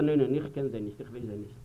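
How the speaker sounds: low, soft disowning; hushed denial. Acted. Disciple denies his master to the soldiers, low and hushed. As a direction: deny it quietly, voice sinking away.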